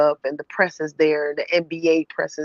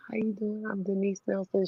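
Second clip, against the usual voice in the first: softer, timid hello to Hannah Storm; too starstruck to speak up; 9 dB quieter than usual. Retold or imitated. Meeting Hannah Storm, starstruck fan barely able to speak up. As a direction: say your name almost under your breath, nervous. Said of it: "I couldn't be loud".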